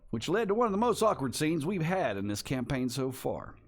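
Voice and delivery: folksy Western narrator recap; announcer voice. Acted. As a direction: spin the tale like an old frontier storyteller. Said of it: "let me get my announcer voice on".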